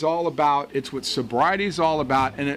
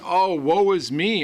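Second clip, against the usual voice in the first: mock self-pity; 3 semitones higher, slower than usual. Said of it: "I'm not going".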